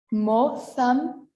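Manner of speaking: "Mozambique" as moh-tham-BEE-keh, syllable by syllable; "Mozambique" with a sounded final e, rising; Spanish pronunciation. Shown as a demonstration. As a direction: model "Mozambique" in Castilian Spanish, z as th. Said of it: "but in Spanish".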